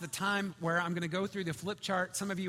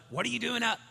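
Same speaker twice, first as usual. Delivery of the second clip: higher, restrained parental complaint; mildly exasperated; 5 semitones higher, 4 dB louder, faster than usual. Retold or imitated. Dad to daughter up again, mildly exasperated question. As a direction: ask it with a touch of weary disbelief.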